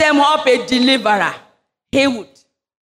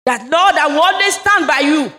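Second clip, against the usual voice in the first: shouted vow; 4 semitones higher than usual. Acted.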